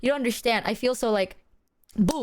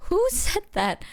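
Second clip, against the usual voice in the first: high, incredulous question; baffled denial; 8 semitones higher, slower than usual. Retold or imitated. Replaying a reply to the sad friend, baffled denial. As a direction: act out total bafflement.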